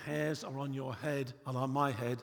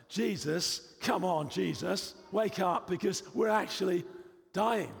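louder, higher urgent begging; acted alarm, higher and louder, stretching "come on"; desperate plea; 5 semitones higher, 4 dB louder than usual. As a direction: shake him awake with your voice. Pleading with sleeping Jesus.

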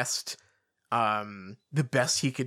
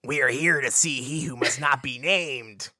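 werewolf voice; 4 dB louder than usual. Acted. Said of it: "rasped Greyback".

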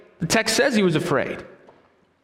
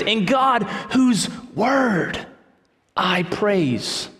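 emphatic proclamation; much slower than usual. Shown as a demonstration. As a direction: proclaim it like a preacher at full voice, then settle. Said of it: "but notice his emphasis".

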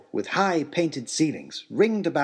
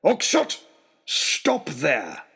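calling out; 3 semitones higher, much slower than usual. Acted. Lord shouting at fleeing man.

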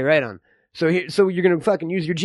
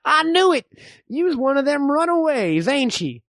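lightly voiced suspicious old frontiersman; old man. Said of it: "I'm the old man".

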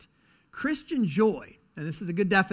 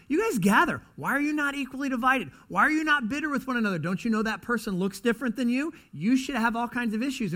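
higher, baffled questioning; puzzled onlooker; 5 semitones higher than usual. Retold or imitated. The watching culture, baffled by a calm church, pitched up. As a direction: voice the bewildered outsider. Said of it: "the culture should look at and say".

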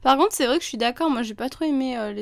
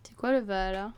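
whispering; 2 semitones lower, 4 dB quieter than usual. Real, not acted. Echoes in a whisper.

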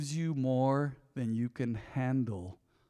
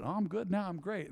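much softer, thin "I'm great"; hushed self-reassurance; 5 semitones higher, 8 dB quieter than usual. Retold or imitated. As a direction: say it quietly, trying to convince yourself. Retold thought, quiet and fragile.

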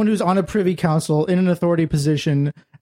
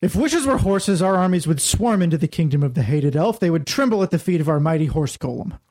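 stern general. Acted. General lecturing a peace-loving ruler, commanding. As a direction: speak like a general used to being obeyed. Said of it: "That character is a general of some sort".

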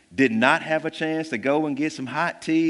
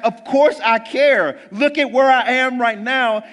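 a hint of exasperated Jesus; 9 semitones higher, 6 dB louder than usual. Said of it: "He's like".

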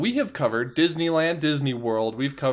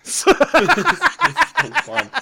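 excited; 11 semitones higher, 6 dB louder, much slower than usual. Real, not acted. Excited host kicking off the podcast.

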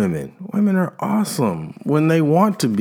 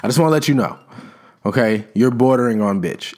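very calm warning; 4 semitones lower, faster than usual. Retold or imitated. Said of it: "It's very calmly like".

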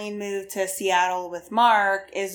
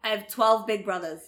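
put-on Boston accent. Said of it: "I don't think your Boston accent".

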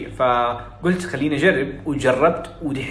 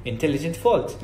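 "intelligent fault" in everyday Saudi-accented English; local Arab accent; much slower than usual. Shown as a demonstration. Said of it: "ما حقول زي كده".

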